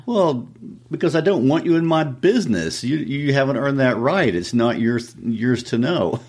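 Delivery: high-pitched mock indignation; defensive student. Student tells teacher to stay out of his business, defensive.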